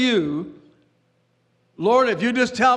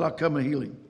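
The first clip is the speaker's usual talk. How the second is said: softer, lower, just simply said; simple and quiet; 7 semitones lower, 7 dB quieter, faster than usual. Shown as a demonstration. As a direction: drop the voice and say it plainly. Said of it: "He just simply said".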